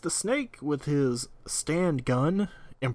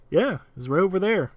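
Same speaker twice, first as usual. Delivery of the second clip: pointing out; 6 semitones higher, 6 dB louder than usual. Retold or imitated. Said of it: "this one guy finally is just like".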